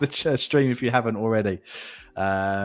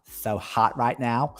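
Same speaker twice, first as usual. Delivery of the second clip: slow, drawn-out mock-model delivery of the line; put-on catchphrase; much slower than usual. Estate agent hamming up a catchphrase to the stream, slow and drawn out. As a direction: stretch each word like a silly catchphrase. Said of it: "Don't know why I've done that".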